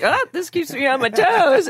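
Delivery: high, laughing retold reply; perky comeback. Answering the teasing in a scene, perky comeback. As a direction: toss it back high and playful.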